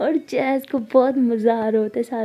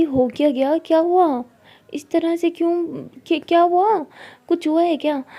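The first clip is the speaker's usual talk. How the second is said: higher, louder worried questioning; alarmed questions; 5 semitones higher, 4 dB louder than usual. Acted. Tara anxiously questioning Sara. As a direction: press her anxiously.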